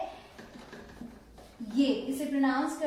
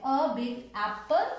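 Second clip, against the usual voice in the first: slow demo; 2 semitones lower, much slower than usual. Shown as a demonstration. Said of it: "हमें मतलब इसके sound से".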